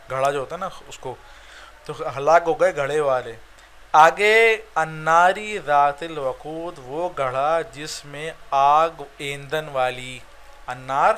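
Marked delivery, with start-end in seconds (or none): 4.7-6.7 slow, deliberate recitation of the verse; a teacher reciting scripture slowly for the class; slow Quran recitation. Shown as a demonstration. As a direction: read it out like a verse, taking your time.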